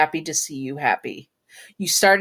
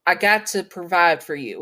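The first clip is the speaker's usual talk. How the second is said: slight Southern cowboy twang; a touch of Southern in the voice; Southern cowboy accent. Acted. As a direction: lightly put on a cowboy accent. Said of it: "slip into a sort of Southern or cowboy accent".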